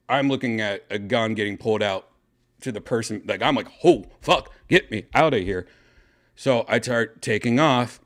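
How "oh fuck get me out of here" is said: retold panic. Retold panic at seeing a gun.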